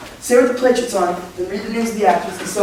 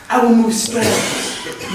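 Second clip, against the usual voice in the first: hammy laughing boast; much slower than usual. Acted. Bottom hams up his acting.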